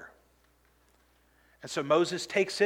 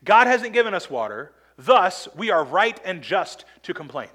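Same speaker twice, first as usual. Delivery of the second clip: indignant complaint; 5 dB louder than usual. Retold or imitated. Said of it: "They're saying".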